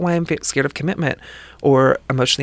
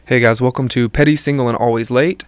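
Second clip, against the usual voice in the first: lightly lowered macho guy voice; masculine voice; 5 dB louder than usual. Pretend. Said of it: "can you do your mask voice?".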